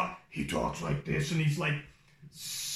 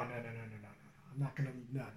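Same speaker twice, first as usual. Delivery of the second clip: fading no's; 7 semitones lower, 13 dB quieter, faster than usual. Retold or imitated. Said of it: "And he's like".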